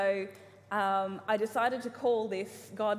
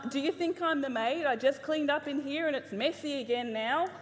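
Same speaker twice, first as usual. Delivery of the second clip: imitating a parent; 4 semitones higher, 3 dB louder than usual. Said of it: "the ones I could think of".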